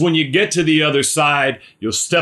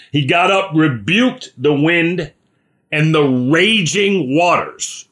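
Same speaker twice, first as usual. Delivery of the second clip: forceful rebuke; 4 semitones higher than usual. Acted. Preacher acting out Jesus rebuking storm.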